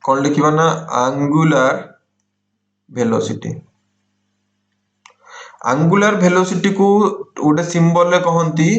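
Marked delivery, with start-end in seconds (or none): 1.0-3.5 slow dictation. Shown as a demonstration. Teacher giving students a term to write, slow dictation. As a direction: dictate ଆଙ୍ଗୁଲାର ଭେଲୋସିଟି word by word.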